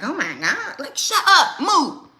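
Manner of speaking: high loud fed-up yell; exasperated yell. Retold or imitated. Overwhelmed mom shouting at kids. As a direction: shriek it in frustration.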